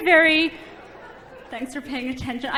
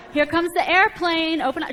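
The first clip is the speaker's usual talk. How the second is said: airplane spoon game; 4 semitones higher than usual. Retold or imitated. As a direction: coax a toddler to eat. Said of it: "I go".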